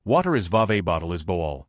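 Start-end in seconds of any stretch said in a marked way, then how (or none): 0.5-0.8 "vave" with no T sound; "vave" for water, T dropped. Shown as a demonstration. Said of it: "Not pronouncing the T in the middle of words". 1.2-1.7 "boal" with the T swallowed; "boal" for bottle, T gone; dropped T. Shown as a demonstration. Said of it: "Not pronouncing the T in the middle of words".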